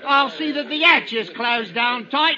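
high, loud laughing threat; cruel laughter. Acted. Finch to the convicts, laughing threat.

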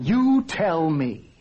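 slow, pointed angry retort. Acted. Husband confronts his wife, angry and deliberate. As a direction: throw the question back crossly. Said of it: "Why are you so angry?".

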